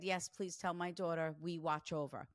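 soft unvoiced whisper; whispered message. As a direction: breathe it like a message from beyond. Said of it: "And she said".

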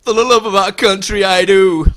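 the hero answering his loved one with a hammed-up noble vow; mock heroic vow. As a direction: declare it like a noble movie hero. Hero's reply in mock trailer.

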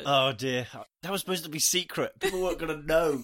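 talking with tissue up one nostril; toilet paper up nose. Real, not acted. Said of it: "with your toilet paper nose".

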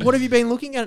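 high mock caller voice; squeaky put-on question; scam caller asking. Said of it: "And she was like".

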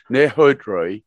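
put-on Haudreuil said the French way with a jokey French accent; mock French accent. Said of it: "again my French accent".

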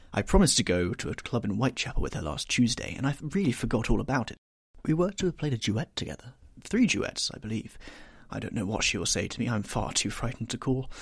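a youth who is bored of sitting; lightly voiced petulant lad; petulant young Dorian.

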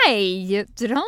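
put-on high, slow wailing child's voice; whiny toddler. Toddler wailing at mother about arm, high and slow.

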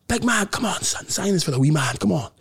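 imitated fan with an Irish accent. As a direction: put on an Irish accent, coaxing for an autograph.

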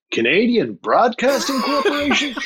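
baffled rising echo of the name; as a question. Retold or imitated. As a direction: read the name back like it's a question. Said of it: "Like it was a question".

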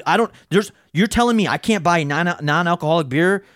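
mildly heated, incredulous challenge; indignant, stumbling mock protest; retold pissed-off customer. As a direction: imitate an outraged customer arguing. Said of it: "He's fucking pissed".

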